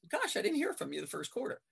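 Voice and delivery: mock-innocent sarcastic retort; a touch of sarcasm, lightly needling. Referee answering a coach's foul-count complaint, sarcastic. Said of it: "I hear the sarcasm in it".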